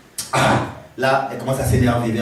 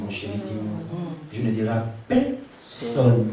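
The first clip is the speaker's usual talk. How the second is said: Dalila susurre; 6 semitones lower, 6 dB quieter than usual. Acted.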